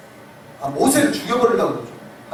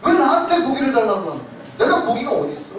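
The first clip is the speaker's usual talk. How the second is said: irritated; 3 semitones higher than usual. Retold or imitated. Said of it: "그렇게 짜증내".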